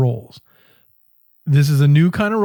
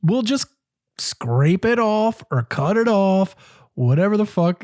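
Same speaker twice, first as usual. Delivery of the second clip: forced casual calm; 5 semitones higher, slower than usual. Retold or imitated. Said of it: "And I'm like".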